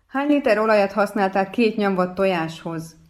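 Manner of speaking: mock yell through the doorway; retold shout. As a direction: call out in disbelief across the flat. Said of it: "kiabálok ki Miklósnak".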